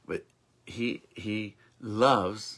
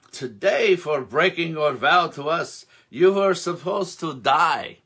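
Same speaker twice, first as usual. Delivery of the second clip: stern rebuke; 5 semitones higher, 6 dB louder than usual. Acted. Tzaddikim rebuke Zusia.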